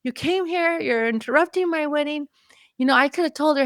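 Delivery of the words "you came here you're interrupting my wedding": mock annoyed teen. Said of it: "she looks at me like".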